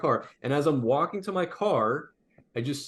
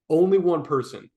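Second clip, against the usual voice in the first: louder, abrupt retold bark; imitated bark; 3 semitones higher, 6 dB louder than usual. Lot owner ordering customers back, imitated bark. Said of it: "immediately just barked at us".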